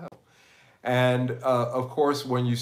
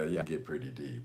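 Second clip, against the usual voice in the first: deep voice, pushed low; extremely deep bass voice; 7 semitones lower, 9 dB quieter than usual. Shown as a demonstration. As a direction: drop into your deepest bass. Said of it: "You can try to make the deepest voice you can do".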